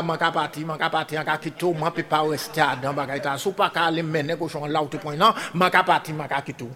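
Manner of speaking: soft, low muttered reply; quiet reply. Acted. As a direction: say it low under the breath. Quiet voiced pig reply.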